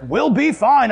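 insistent dad. Retold or imitated. Dad to family in the storm, insistent. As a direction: imitate dad insisting over the chaos.

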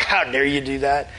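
mild mock indignation; lightly acted accusatory challenge; accusing. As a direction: confront God as a rebel would. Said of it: "difference in the tone of voice".

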